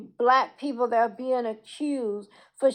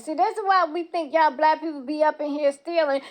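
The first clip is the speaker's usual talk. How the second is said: mocking racist voice; 4 semitones higher than usual. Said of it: "racist white people are gonna use that".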